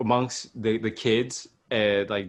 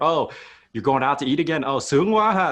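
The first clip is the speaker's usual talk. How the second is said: mock parent teasing, higher and louder at the end; 4 semitones higher, 4 dB louder than usual. Parent teasing child about eating out, playfully loud. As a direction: tease like a parent calling you spoiled. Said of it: "your parents will be like".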